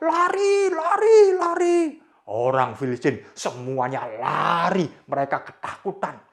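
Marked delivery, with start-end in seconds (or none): 0.0-1.8 high, loud panicked yell; panicked shout. Acted. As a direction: scream at everyone to run. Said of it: "mereka teriak".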